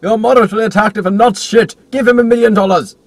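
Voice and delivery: mock Hollywood exec. Mocking Hollywood casting logic.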